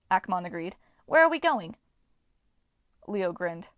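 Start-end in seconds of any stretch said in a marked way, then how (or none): 1.1-1.8 eager dwarf. A narrator's reading.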